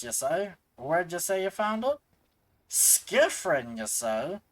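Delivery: lightly voiced blunt old foreman; a dockside boss grumbling at the lad; gruff foreman NPC.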